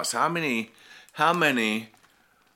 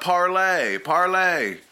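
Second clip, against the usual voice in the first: high, raised mock yell; imitated cry, pitched high and louder; retold yell; 7 semitones higher, 4 dB louder, slower than usual. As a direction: yell it out like the captured girl. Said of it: "she yells out".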